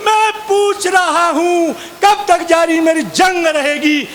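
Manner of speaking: frustrated poet repeating his only line in anger; angry recital. Retold or imitated. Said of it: "मुझे गुस्सा आया".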